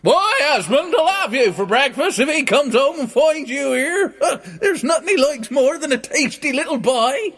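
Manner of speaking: very high, loud, laughing shriek; cackling giantess. Acted. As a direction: cackle like a huge old woman. Giant's wife warns Jack.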